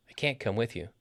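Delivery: CAN'T with a full vowel and the main beat; stress on CAN'T. Shown as a demonstration. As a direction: hit CAN'T, then fall away. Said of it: "we stress the negative".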